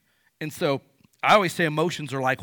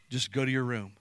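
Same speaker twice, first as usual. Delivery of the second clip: calm parent; 2 semitones lower than usual. Shown as a demonstration. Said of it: "it's a good thing to just say".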